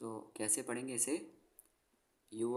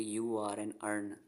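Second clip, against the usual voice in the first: slow drill; slower than usual. Shown as a demonstration. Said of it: "drills the letters".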